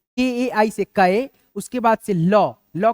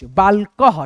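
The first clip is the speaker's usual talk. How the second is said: बालकह said louder, final ह clearly breathed; emphasized word; 6 dB louder, much slower than usual. Shown as a demonstration. Teacher loudly presenting the word for students to write. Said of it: "B A L A के A H".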